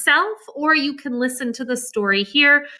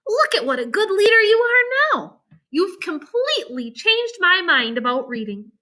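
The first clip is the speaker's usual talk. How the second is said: put-on higher admiring girl's voice; Jane; 6 semitones higher than usual. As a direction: encourage him like an impressed friend. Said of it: "said Jane".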